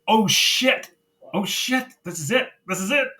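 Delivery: high-pitched fan freak-out; excited realization. Retold or imitated. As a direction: relive it like the big moment is landing. Reliving excitement as the moment arrived.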